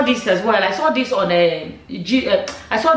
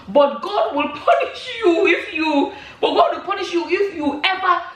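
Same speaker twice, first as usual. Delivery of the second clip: laughing through a mock curse; 5 semitones higher than usual. Reading a commenter's curse to viewers, laughing. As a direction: try to read the curse but crack up.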